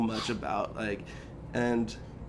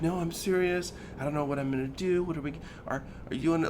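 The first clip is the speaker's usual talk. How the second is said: high-pitched tearful imitation; fake crying; 5 semitones higher, 3 dB quieter, faster than usual. Wife insisting to him that it is serious, fake crying. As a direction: imitate a pretend panicked, weepy plea. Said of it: "she fakes crying".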